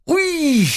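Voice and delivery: very high pained yelp; sharp yelp of pain. Acted. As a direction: yelp as the whip hits. Whipped girl yelps.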